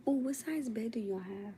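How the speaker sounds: whispered question; hushed whispered question. Real, not acted. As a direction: ask it in a whisper. Whispers to chat at night.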